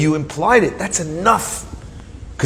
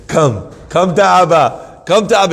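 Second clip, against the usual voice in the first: put-on coaxing a toddler; 3 semitones higher, 4 dB louder than usual. Father coaxing toddler with lollipop.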